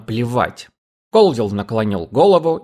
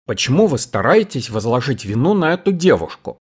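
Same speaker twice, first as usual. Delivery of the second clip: plain reading voice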